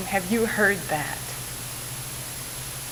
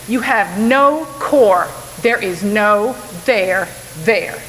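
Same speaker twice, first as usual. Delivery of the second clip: mock dismissive colleague. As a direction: imitate a smug dinner guest lecturing you. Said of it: "turned to me and said".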